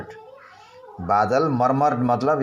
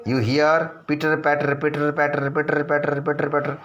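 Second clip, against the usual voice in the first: rain sound; 4 semitones higher, slower than usual. Shown as a demonstration. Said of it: "what kind of sound you hear".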